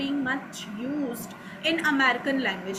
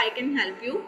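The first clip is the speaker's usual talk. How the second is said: Pakistani style; 2 semitones lower than usual. Shown as a demonstration. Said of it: "ये मेरा Pakistani style है".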